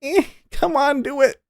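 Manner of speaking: very high squeaky turtle imitation; straining turtle. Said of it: "and he's like".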